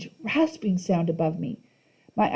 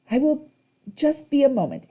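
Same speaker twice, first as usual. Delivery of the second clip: put-on sweet old lady; 7 semitones higher than usual. A narrator's reading. Auntie Em voice.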